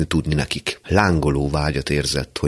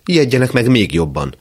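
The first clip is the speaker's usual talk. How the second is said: gloating threat; 8 semitones higher, 5 dB louder than usual. Acted.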